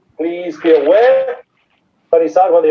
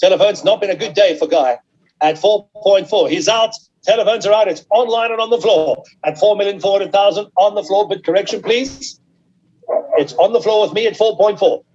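auction bid spotter; 2 semitones higher than usual. Real, not acted. Auctioneer calling bids live.

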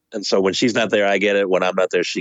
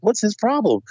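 mock annoyed question; 11 semitones higher than usual.

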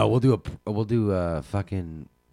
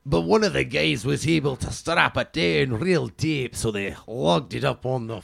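put-on Scottish accent; 2 semitones higher than usual. Plays Scottish news correspondent.

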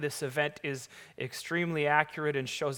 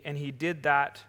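normal talking voice

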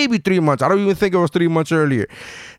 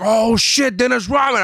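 fanboy excitement; 5 semitones higher than usual. Retold or imitated. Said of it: "I was fanboying out".

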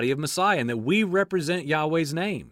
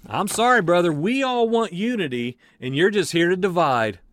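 mock indignant accuser; 3 dB louder than usual. Acted accuser in a church quarrel.

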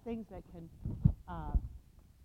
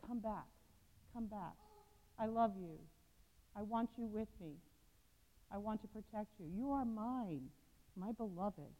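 softer, hushed call to come back; 7 dB quieter than usual. Acted. Jesus calling us back, soft and tender. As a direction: murmur it like a loving invitation. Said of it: "he's still calling us".

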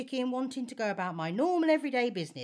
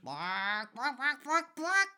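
indignant quacking; 3 semitones higher, slower than usual. Acted. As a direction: quack in rising outrage.

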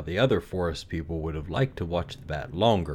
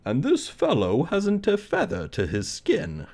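high bird voice, objecting; high objecting oriole; 11 semitones higher than usual. Acted. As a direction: chirp it out like an oriole. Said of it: "cried an oriole".

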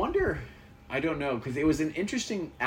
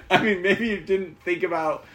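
slow, high laughing words; 7 semitones higher, 8 dB louder, slower than usual. Real, not acted. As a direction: laugh it out slowly. Laughing at twins missing landmark.

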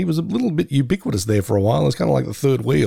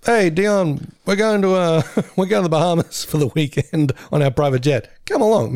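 rich buddy; 4 semitones higher than usual. Pretend. Voicing rich buddies inviting him.

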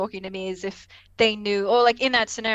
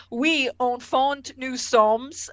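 slow, halting bad French; Picard's butchered French; 3 semitones higher, much slower than usual. Picard attempting French with Minuet, slow and butchered. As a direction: labour through badly pronounced French. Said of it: "he can't speak French for the life of him".

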